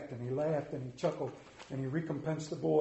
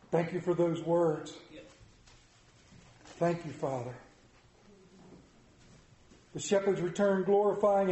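earnest, measured prayer voice; 2 semitones higher than usual. Acted. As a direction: pray it over the congregation. Leads a closing prayer.

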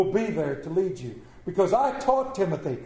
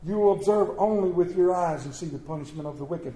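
scripture reading. Acted. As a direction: lay the psalm out for the congregation. Reads Psalm 91 aloud.

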